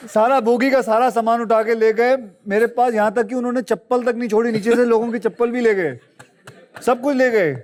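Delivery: high-pitched, half-comic complaint; mock lament. Passenger recounting how bandits took everything, hammed-up lament. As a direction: wail lightly over everything being stolen.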